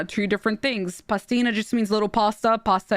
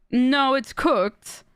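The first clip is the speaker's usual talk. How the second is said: drawn-out insistent retort; slow it right down, pitched up, insisting; 4 semitones higher, much slower than usual. Retold or imitated. Streamer retelling an argument over cured meat, insistent.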